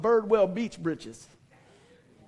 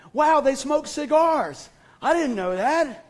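dazed wonder; 6 semitones higher, 5 dB louder, slower than usual. Retold or imitated.

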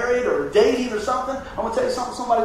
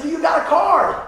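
higher and louder, calling after the gurney; eager shout; 8 semitones higher, 6 dB louder than usual. Retold or imitated. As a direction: call out as they wheel him away. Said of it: "he said".

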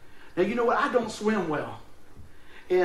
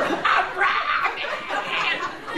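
strained whisper; 10 semitones higher, 4 dB louder than usual. Retold or imitated. Quoting himself mid-struggle.

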